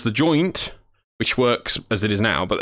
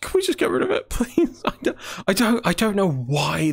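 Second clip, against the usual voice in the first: whiny voice; 8 semitones higher than usual. Acted. Whining about unwanted effect.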